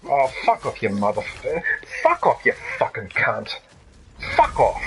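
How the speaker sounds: furious cursing at the enemy; swearing tirade. Real, not acted. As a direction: spit the curses out in real rage. Raging at enemy.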